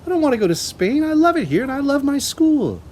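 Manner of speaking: put-on high, loud protesting girl; pleading child. A narrator's reading. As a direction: beg to stay, upset. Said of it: "Matilda cried".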